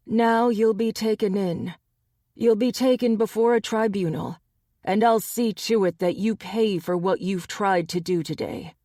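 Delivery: lightly voiced stern alpha. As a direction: pronounce the sentence. Gabe passes judgement.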